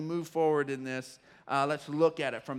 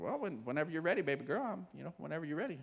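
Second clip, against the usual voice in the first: soft, gentle reassuring dad; calm her down gently; gentle reassurance; 7 dB quieter, much faster than usual. Retold or imitated. Dad reassuring his four-year-old daughter softly. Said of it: "I said".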